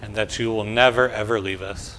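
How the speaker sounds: quiet prayer in short phrases; led prayer. Real, not acted. Pastor leads children in prayer line by line, softly. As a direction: pray gently, pausing for the echo.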